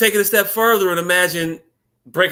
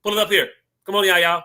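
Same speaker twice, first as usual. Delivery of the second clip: lightly voiced Roland Martin calling for his production team; calling out to production like a TV host; Roland Martin impression; 3 semitones higher, faster than usual. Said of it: "That's my Roland Martin impersonation".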